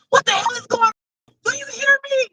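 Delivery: hammed-up outburst at God; mock yell at God. Venting to God, a loud exasperated demand. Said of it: "I'll be like".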